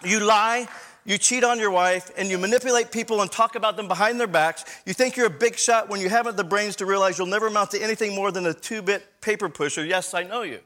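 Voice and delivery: a hint of a sassy grandmother telling him off; feisty grandma. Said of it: "She responded".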